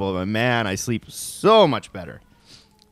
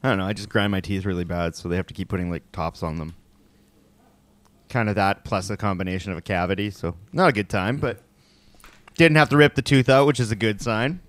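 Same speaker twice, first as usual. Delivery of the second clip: numb from the dentist; 4 semitones lower than usual. Real, not acted. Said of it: "I can't feel my face".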